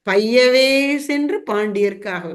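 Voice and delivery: slow, stretched verse quote; go slowly. Acted. Teacher quoting the saint's verse to explain "slowly", slow. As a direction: recite it with drawn-out words. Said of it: "மெதுவா போய்".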